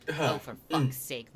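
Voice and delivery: holding back laughter. Acted. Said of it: "barely containing his laughter".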